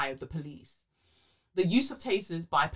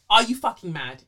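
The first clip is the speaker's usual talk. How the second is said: announced title; 4 semitones higher, 10 dB louder than usual. Acted.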